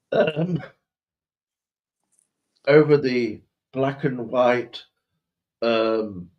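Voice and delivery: faux posh accent. Posh master refusing to speak of these deeds, faux posh. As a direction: pause gravely between phrases in posh English. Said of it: "but faux posh".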